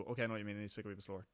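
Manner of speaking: rapid natural Northern Irish pace; quick, run-together words; normal fast speech. Shown as a demonstration. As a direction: rattle it off at home speed. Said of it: "in my normal voice".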